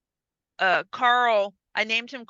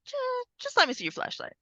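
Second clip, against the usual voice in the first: much higher, pleading insistence; insistent repeat; 5 dB quieter, faster than usual. Retold or imitated. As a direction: push the request again, pitched way up. Girl insisting again, pitched up.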